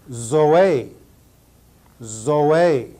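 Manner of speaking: Zoe as dzo-AY, two clear syllables; Greek pronunciation. Shown as a demonstration. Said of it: "Greek vocabulary drill".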